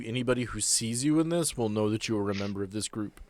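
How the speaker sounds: normal talking voice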